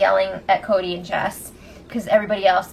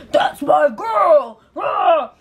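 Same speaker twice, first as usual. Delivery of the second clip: slow, louder mock cheer; cheering shout; 3 semitones higher, 3 dB louder, much slower than usual. Paul kissing Raven's forehead, mock cheering shout. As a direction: cheer her on like a proud fan.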